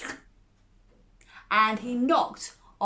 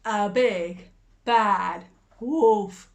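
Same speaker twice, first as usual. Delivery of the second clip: louder, ominous "bad wolf"; dramatic reveal; 6 dB louder, much slower than usual. A narrator's reading. Narrator revealing the wolf to children, dramatic. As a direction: land the villain with weight.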